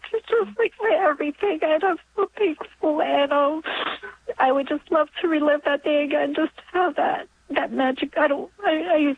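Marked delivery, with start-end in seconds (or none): 0.1-3.0 high, choked-up voice; moved close to tears; real emotional. Real, not acted. Caller tells of her daughter's name, emotional. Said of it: "wasn't expecting to get so emotional".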